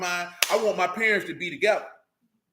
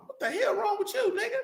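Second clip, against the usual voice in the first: laughing disbelief; 13 semitones higher, 5 dB quieter than usual. Retold or imitated. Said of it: "I be like".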